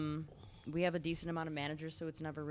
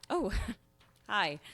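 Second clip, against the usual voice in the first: feigned casual hi; 3 semitones higher, 5 dB louder than usual. Acted. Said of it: "hear your take on Fleabag".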